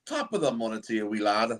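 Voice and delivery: put-on Scottish accent. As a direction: toss off a playful Scottish accent. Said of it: "I will talk with the Scottish accent".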